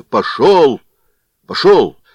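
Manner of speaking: shouting. Acted. Blacksmith ending it with a loud shout. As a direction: slam the door with the words. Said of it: "закричал кузнец".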